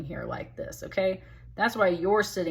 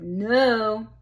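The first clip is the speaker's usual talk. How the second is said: louder, drawn-out "No"; emphatic denial; 3 semitones higher, 5 dB louder than usual. Acted. His answer to whether he is listening, emphatic denial. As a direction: lean hard on "No". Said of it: "He said".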